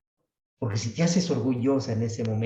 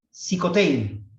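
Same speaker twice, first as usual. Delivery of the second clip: high, slow, drawn-out proclamation; palabra de Jesús; 7 semitones higher, 4 dB louder, slower than usual. Acted. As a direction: stretch it out like a command. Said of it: "Jesús solamente dice una palabra". (proclamación alta y alargada)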